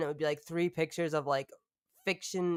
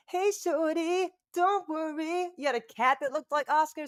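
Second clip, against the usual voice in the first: silly squeaky voice; 10 semitones higher than usual. Pretend. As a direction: coo it in a tiny cartoon voice. Put-on voice addressing shorty.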